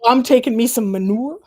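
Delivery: a hint of a Southern farm voice; mock Southern accent. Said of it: "you say all the Southern things".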